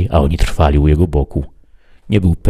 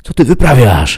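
high, raised challenge; Thorn shouting; 8 semitones higher, 4 dB louder than usual. A narrator's reading. Companion demands to know what he is doing, shouting. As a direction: call out sharply in a raised pitch. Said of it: "krzyknął do niego Thorn".

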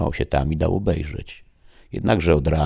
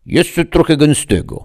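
put-on old woman's mutter; 13 semitones higher, 10 dB louder than usual. A narrator's reading. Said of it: "mruknęła staruszka".

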